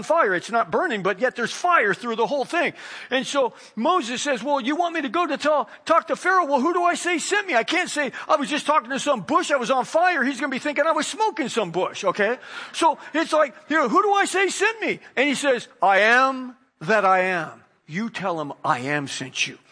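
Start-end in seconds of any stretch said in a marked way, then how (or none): 4.4-15.0 high, pleading Moses asking who sent him; Moses protesting. Acted. Moses pleading with God at the burning bush, high and anxious. 15.8-19.6 voice of God. Acted. God speaking from burning bush.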